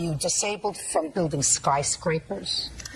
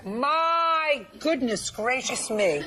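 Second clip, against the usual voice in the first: mock astonishment; 3 semitones higher, much slower than usual. Real, not acted. Judge mocks excuse.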